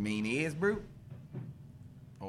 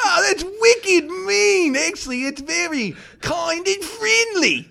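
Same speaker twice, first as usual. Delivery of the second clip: laughing mock outrage; 10 semitones higher than usual. Real, not acted. Host laughing at the caller's Kiwi slang. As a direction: crack up while protesting.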